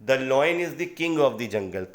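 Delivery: "The lion is the king of the jungle" read slowly, each word clear; slow example reading. Shown as a demonstration. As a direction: spell it out slowly for the students. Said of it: "जैसे example में देखिए". (उदाहरण धीरे-धीरे पढ़ना)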